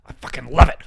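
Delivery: loud mocking cheer. Mocking activists who cheer, loud and gleeful. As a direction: ham up a gleeful fan.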